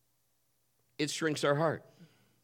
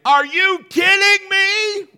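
much higher, much louder, slow; mock outraged shout; 14 dB louder, slower than usual. Wife voicing the daughter's outrage at the order, mock shout. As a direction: yell it in hammed-up disbelief. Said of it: "Mal was like".

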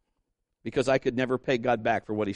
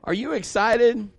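high, loud, rousing question; excited rally; 9 semitones higher, 6 dB louder than usual. Real, not acted. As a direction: fire up the crowd. Rousing the congregation.

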